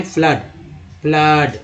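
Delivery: "फ्लड" with a short uh vowel, repeated separately; teacher modelling the uh sound in "फ्लड"; double-o as "uh". Shown as a demonstration. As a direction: say "फ्लड" as flud, then repeat it carefully. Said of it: "अ के रूप में".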